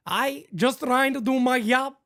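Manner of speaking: mock Wells quote. Co-host joking what Wells will say, mock player voice. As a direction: lightly voice Wells with broken English, laughing. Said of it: "He said".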